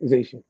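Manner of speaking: "ization" said slowly and apart, each syllable clear; drawn out ending. Shown as a demonstration. Streamer to chat, showing how he says "ization". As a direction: isolate "ization" deliberately. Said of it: "I'm saying it like that".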